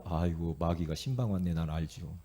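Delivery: low, hushed rebuke sinking towards a whisper; quiet dismissal. Acted. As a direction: send the devil off calmly, under your breath. Models a calm dismissal of devil.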